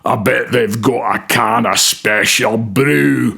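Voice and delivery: put-on judgmental Scottish gangster accent, hushed and sneering; Scottish gangland boss. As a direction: sneer it like a Glasgow hard man in Scottish. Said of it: "the judgmental voice in my Scottish gangland boss audition voice".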